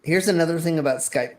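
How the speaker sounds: hiccups breaking into the words; talking through hiccups; hiccuping. Real, not acted. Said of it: "Sorry, I keep hiccuping".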